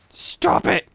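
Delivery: mock frustrated squeak; squeaky outburst. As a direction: squeal it at the game.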